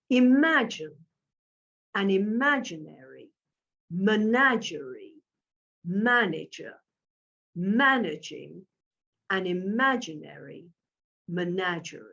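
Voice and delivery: deliberate, word by word with pauses; measured pace. Shown as a demonstration. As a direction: pace it evenly, a pause after each word. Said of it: "Let me say it for you again".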